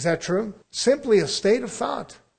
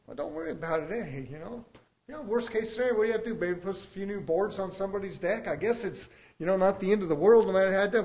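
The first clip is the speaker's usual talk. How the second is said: nonchalant; faster than usual. Retold or imitated. Coworker playing down spilt paint, nonchalant. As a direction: shrug the whole thing off. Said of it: "just nonchalant, didn't care".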